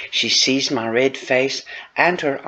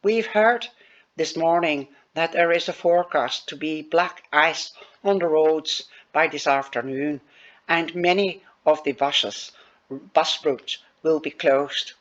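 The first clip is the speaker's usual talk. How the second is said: put-on Irish accent; 3 semitones higher than usual. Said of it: "That's my Irish accent".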